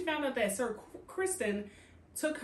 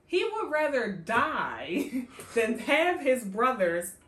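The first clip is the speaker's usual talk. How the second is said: laughing; 4 dB louder, much slower than usual. Real, not acted. Laughing while retelling the story.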